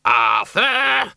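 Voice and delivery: high, loud scream of the name; piercing, urgent yell. Acted. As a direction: scream at a husband to obey. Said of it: "screamed Doreen".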